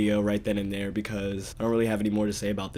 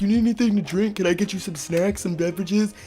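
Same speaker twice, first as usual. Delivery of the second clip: high pitched fussy little voice; cartoonish tiny wizard host; 9 semitones higher than usual. Tiny wizard offers the narrator snacks, high and eager.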